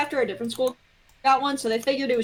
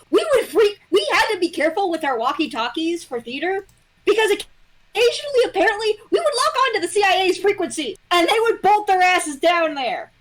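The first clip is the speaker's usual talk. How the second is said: excited storytelling; 6 semitones higher than usual. Real, not acted. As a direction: build the excitement of the anecdote. Excited story about CIA frequency.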